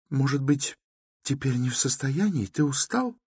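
meek. A narrator's reading. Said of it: "кротко сказала она".

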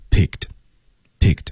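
"picked" hit firmly and slowly; stress on picked. Shown as a demonstration. 老师强调关键词，慢读重音picked. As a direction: give "picked" a clear, slow punch. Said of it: "关键词picked".

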